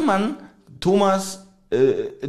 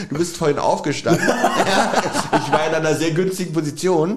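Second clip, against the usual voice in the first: laughing; 3 semitones higher than usual. Real, not acted. Laughing while teasing about hair.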